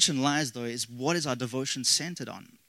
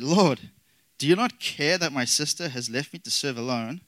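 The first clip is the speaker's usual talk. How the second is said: a touch of exasperation, louder on the opening; frustrated Martha; 2 semitones higher, 4 dB louder than usual. Acted. Martha complaining to Jesus about her sister, mildly frustrated. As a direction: read her complaint with mild, pleading frustration. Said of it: "hear the frustration in Martha's voice".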